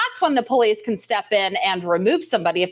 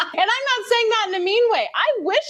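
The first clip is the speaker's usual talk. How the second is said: laughing while talking; 11 semitones higher than usual. Real, not acted. Laughing at the accents.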